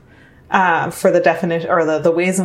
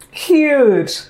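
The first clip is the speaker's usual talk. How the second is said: laughing; 8 semitones higher, 4 dB louder than usual. Real, not acted. Echoing partner, laughing.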